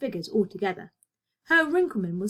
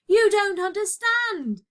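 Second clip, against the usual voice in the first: high, slow anguished cry of despair; an apprentice tells his friend, pained and passionate; 11 semitones higher, 4 dB louder, slower than usual. A narrator's reading. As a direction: plead to be understood, voice stretched high. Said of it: "said Karl passionately".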